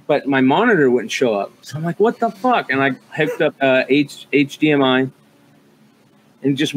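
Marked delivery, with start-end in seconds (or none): 2.0-2.7 sudden high pitched what-the-fuck, half-laughing in the retelling; exasperated outburst. Retold or imitated. Retelling the dead monitor to a fellow PC builder, high exasperated outburst. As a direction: throw it up high in mock disbelief.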